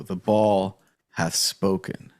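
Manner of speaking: slow, solemn pharaoh decree; booming pharaoh. Acted. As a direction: pronounce it like an ancient king. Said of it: "it sounded like the Pharaoh".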